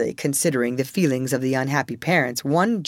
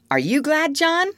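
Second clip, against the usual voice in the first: put-on very high childish question; eager child; 13 semitones higher than usual. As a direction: ask the other boy in a piping child's voice. Child eagerly polls the others.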